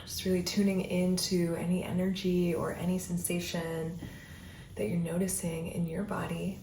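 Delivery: soothing breath-by-breath guidance; guided meditation. Acted. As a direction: ease the listener into stillness, one breath at a time.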